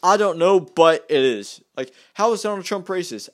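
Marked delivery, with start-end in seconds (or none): 0.0-1.6 mocking dismissive reply. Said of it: "all Democrats' answers are".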